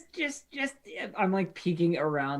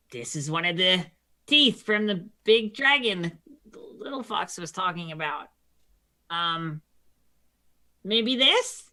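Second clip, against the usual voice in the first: timid kobold voice; 4 semitones higher than usual. Acted. Kobold offers tooth to queen.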